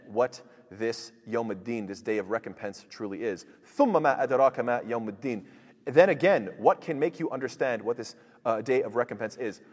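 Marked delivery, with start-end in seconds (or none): 3.8-5.4 fast, chanted Quranic recitation. Acted. Teacher reciting the verse to students, chanted and fast. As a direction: recite the verse in full tajweed flow.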